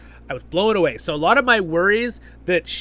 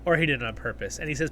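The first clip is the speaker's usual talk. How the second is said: ordinary delivery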